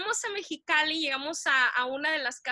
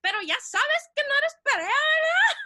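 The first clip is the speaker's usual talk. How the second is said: cousin's blunt question; 11 semitones higher, 6 dB louder than usual. Retold or imitated. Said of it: "dice su prima".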